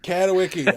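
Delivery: Katowicki repeated with a "wicky" ending; echoed mispronunciation. Real, not acted. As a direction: echo Katowicki, rhyming its end with "icky". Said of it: "that sounds even worse than mine".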